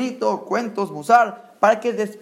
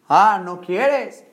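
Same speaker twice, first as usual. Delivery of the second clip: slow, drawn-out Ah, ¿no quieres?, a bit louder; mock challenge; 5 dB louder, much slower than usual. Rabbi confronting someone who won't do mitzvot, mock challenge. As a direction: stretch it out like daring him. Mocking a refusing Jew.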